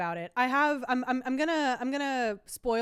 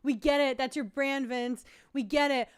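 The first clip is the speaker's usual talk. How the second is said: mock exasperation; 4 semitones higher, 3 dB louder than usual. Acted exasperated reply to Vince.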